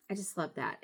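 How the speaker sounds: soft unvoiced whisper. Real, not acted. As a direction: breathe it like a secret. Fond aside about the charm.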